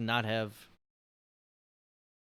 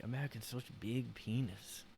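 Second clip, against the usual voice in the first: put-on South Park-style Asian accent parody; mock Asian accent; 2 semitones higher than usual. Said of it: "heard me do the accent".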